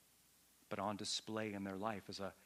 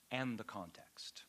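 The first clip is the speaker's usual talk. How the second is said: dramatic whisper; 4 dB quieter, slower than usual. Acted. Dropped to a whisper for effect.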